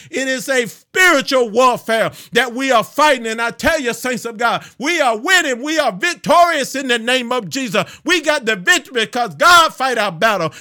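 rally the saints for battle; fired-up preaching. Real, not acted. Preacher rousing the saints to spiritual warfare, fired-up preaching.

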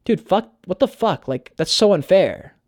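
slow, high, exasperated complaint; frustrated outburst. Retold or imitated. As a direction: replay the old frustration, dragging it out. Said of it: "I was like".

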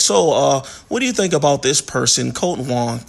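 mock dull, droning question; boring talk. Shown as a demonstration. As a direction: ask it like the dullest podcast host. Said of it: "kinda talk like this".

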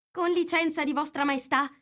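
high-pitched, meek little voice; very humble. A narrator's reading. Kneeling gardener answers the Queen, very humbly. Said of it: "con tono assai umile".

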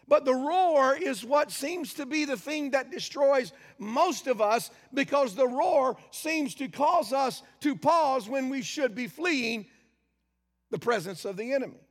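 slow, forceful preaching with rising intensity; building preaching. Acted. Preacher warns the congregation about the roar, forceful. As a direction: drive the warning home slowly.

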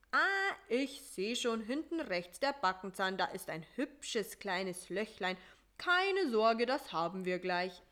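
a hint of a brisk, chatty mosquito dentist; lightly voiced doctor, polite and busy. Voices Doktor Schnake.

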